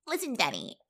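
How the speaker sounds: breathy sultry whisper; whispered come-on. Retold or imitated. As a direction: whisper it like a seduction. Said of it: "And you're like".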